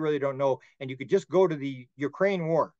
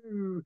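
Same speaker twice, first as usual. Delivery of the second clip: soft, higher "ooh" like a balloon deflating; 5 semitones higher, 7 dB quieter than usual. Retold or imitated. Beings calming him down, softly deflating. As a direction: imitate air escaping a pricked balloon. Imitates air leaving a balloon.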